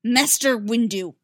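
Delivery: loud sharp call, drawn out; whip-crack call. Acted. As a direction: command his attention like a whip. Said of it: "voice cracked like a whip".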